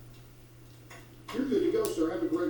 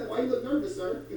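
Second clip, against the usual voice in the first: chuckling through the question; laughing; 3 semitones higher than usual. Acted. Officer laughs while grilling a nervous driver. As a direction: tease him while laughing.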